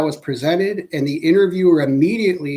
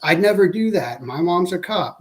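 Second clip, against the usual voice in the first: a protesting suspect's denial, pitched higher; 4 semitones higher than usual. Shown as a demonstration. Demo of a suspect denying to the interviewer, pitched higher. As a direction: play the suspect insisting they'd never do it. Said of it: "it sounds like this".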